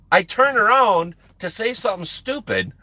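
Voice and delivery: ordinary delivery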